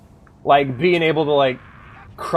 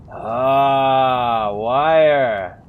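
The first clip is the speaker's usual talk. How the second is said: drawn-out s like a snake; 8 dB louder than usual. Retold or imitated. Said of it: "Why do I always give him a snake voice?".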